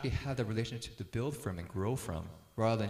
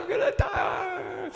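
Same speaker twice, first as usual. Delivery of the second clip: put-on much higher, loud, slow wail of a small boy; imitating a screaming child; 8 dB louder, much slower than usual. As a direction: mimic a terrified five-year-old screaming. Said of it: "he started crying and screaming".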